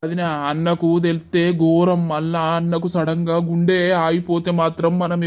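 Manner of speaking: choked, fearful plea; an aunt dreading her brother hearing the news; tearful worry. Acted. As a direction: speak through held-back tears. Aunt fears brother's shock, tearful.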